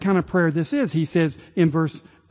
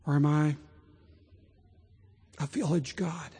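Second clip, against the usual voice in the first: God's tender voice; 4 semitones lower than usual. Retold or imitated. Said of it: "And the Lord is saying".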